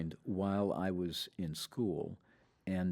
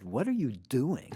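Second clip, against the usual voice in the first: Tom's lazy question, higher and louder; mimicking Tom's drawled question; 7 semitones higher, 7 dB louder than usual. To a friend, imitating Tom's late-night phone question, higher and louder. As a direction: stretch it out like Tom on the phone. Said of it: "Like, literally like that".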